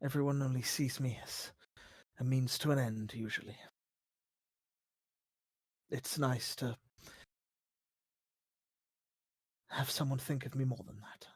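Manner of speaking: low, hushed and hesitant; vulnerable game character. Acted. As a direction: confide softly with long pauses.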